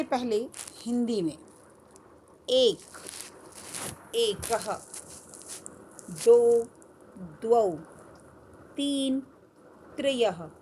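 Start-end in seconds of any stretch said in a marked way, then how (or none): 2.5-10.5 "एक, एकः, दो, द्वौ, तीन, त्रयः" said word by word, a pause after each; model pronunciation. Shown as a demonstration. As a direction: model "एकः" and "त्रयः" with the final breathed h sounded, for pupils to repeat. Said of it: "बोलना और मेरे साथ-साथ दोहराना".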